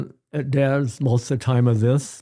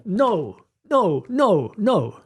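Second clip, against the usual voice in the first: yelled no; 6 semitones higher, much slower than usual. Shown as a demonstration. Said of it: "You could yell".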